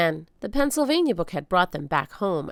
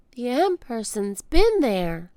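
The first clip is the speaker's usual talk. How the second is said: put-on girl voice; 5 semitones higher, 4 dB louder, slower than usual. Annie voiced by narrator.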